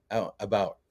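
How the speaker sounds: "about" with a Canadian O sound, close to "a-boat". Shown as a demonstration. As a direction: say "about" the Canadian way, mouth barely open. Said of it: "if I do the, uh".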